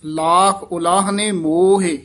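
slow ਲਾਖ ਉਲਾਹਨੇ ਮੋਹੇ, falling to a full stop on ਮੋਹੇ; pause after ਮੋਹੇ. Shown as a demonstration. Teacher shows where to rest after ਮੋਹੇ, slowly. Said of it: "ਇੱਥੇ ਵਿਸਰਾਮ ਲਾਉਣਾ ਹੈ".

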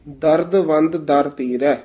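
ਦਰਦਵੰਦ parted lightly between ਦਰਦ and ਵੰਦ; slight break inside ਦਰਦਵੰਦ, then ਦਰ ਤੇਰਾ; said with a dash. Shown as a demonstration. Teacher correcting the reading, ਦਰਦਵੰਦ with a dash. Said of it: "dash ਦੇ ਕੇ ਬੋਲਣਾ".

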